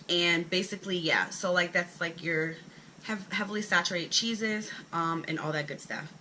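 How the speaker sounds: short of breath, swollen stomach; talking between breaths. Real, not acted. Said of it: "if I sound like I'm out of breath".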